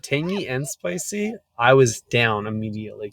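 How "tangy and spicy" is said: savoring echo. Retold or imitated. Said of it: "he sold it".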